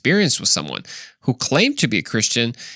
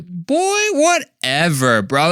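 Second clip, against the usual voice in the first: dismissive scoff; 6 semitones higher, much slower than usual. Real, not acted.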